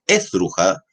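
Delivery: "esdruja" with the weight on the opening "es"; deliberately misplaced front stress on "esdruja"; wrong stress, first syllable. Shown as a demonstration. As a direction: hit ES at the start of "esdruja". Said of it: "no es esdruja".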